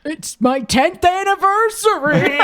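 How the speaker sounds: laughing mock repeat. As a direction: parrot it while laughing. Mocking the line again, laughing.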